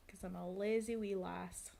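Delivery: light mock Scottish lilt; Scottish accent. Streamer owning up to laziness, mock Scottish accent. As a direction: slip playfully into Scottish. Playful Scottish self-description after accent talk.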